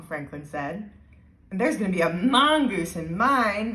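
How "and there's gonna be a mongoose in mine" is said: put-on louder, excited kid's call; mild yell. A narrator's reading. Nelson calling out to class, mild yell. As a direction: call it out like an eager boy. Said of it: "Nelson yelled".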